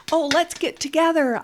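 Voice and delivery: high, sing-song play voice; playful voice. Shown as a demonstration. Therapist voicing toy play for a toddler, high playful voice. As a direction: coax the toys together playfully. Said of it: "I say".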